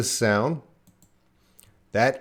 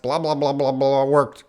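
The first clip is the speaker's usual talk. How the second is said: fast native speech; 3 semitones higher, 3 dB louder than usual. Shown as a demonstration. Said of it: "speaking very fast".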